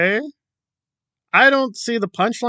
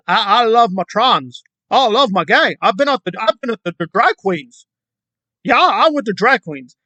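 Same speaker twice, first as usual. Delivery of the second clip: mocking Kelly; 4 semitones higher than usual. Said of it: "Kelly says".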